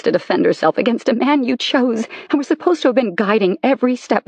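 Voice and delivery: wounded wife tearing into husband; bitter anger. Acted. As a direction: throw every betrayal back at him. Wife confronting lying husband.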